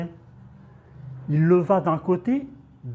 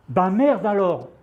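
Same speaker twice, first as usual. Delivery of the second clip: petite exclamation ébahie; lâcher un juron, pris de court; juron de surprise; 3 semitones higher, 4 dB louder than usual. Acted. Juron de surprise face au tapis. (surprise agacée, sans crier)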